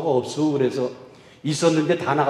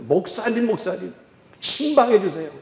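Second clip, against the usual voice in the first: eager calling out; 6 semitones higher than usual. Retold or imitated. Woman runs in calling the pastor.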